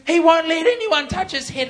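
high-pitched mock-tearful protest; imitated crying mum. Crying mum to preacher about her son, high mock wail. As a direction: wail it lightly as the overwhelmed mum. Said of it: "And she's crying".

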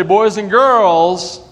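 slow, high, loud call; overbright kids party host. Shown as a demonstration. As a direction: stretch out the cue for the kids. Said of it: "when I say".

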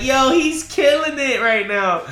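high, loud, drawn-out cheer; amazed hype. Retold or imitated. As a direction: retell your awe, stretching it out loud and high. Acting out his amazed reaction.

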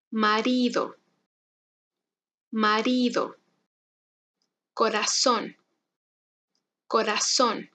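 each word from "Oro" to "grande" said twice, R tapped once; careful single-tap R in every word; soft R drill. Shown as a demonstration. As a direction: pronounce word by word with long gaps for the learner. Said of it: "Intenta conmigo".

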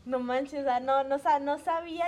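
loud, startled protest; acted-out shock at a faux pas; taken aback. Acting her shocked reaction to friend.

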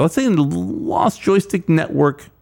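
slow, mock-serious show phrasing; overly formal, tongue in cheek; sarcastic. Real, not acted. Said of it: "laying the sarcasm on pretty thick".

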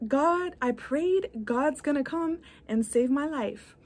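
stranded man. Retold or imitated. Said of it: "And the guy is, is".

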